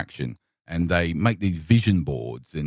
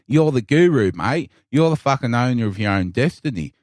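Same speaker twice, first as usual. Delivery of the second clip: put-on strong Australian accent; 3 semitones higher than usual. Guru lines redone as a broad Australian bloke. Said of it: "in a strong Australian".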